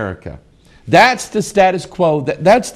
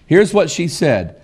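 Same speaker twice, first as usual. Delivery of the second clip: normal talking voice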